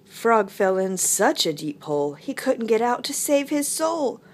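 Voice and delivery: story narration. Acted. Teacher reading picture book to children, animated storytelling. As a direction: tell it to small children, building up.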